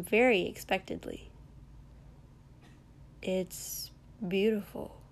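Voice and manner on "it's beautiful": unsure compliment. A narrator's reading. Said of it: "trying not to make it sound like a question".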